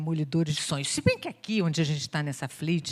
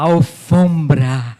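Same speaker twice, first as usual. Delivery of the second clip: loud announcement; 3 semitones lower, 15 dB louder, much slower than usual. Pretend. Revealing the magic carpet word.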